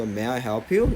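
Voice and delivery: "May I help you?" with help and you run together; linked help you. Shown as a demonstration. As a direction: model it smoothly for students to repeat. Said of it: "이런 식으로 꼭 따라 해보기".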